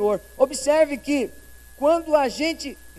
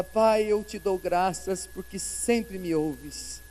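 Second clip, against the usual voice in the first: slow prayer; 4 semitones lower, much slower than usual. Retold or imitated. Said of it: "Ele fala".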